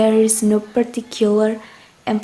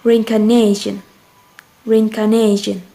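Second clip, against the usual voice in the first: "Reincarnation" with NA stressed; stress on NA syllable. Shown as a demonstration. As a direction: lean on the fourth syllable of "Reincarnation". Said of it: "Watch carefully the apostrophe".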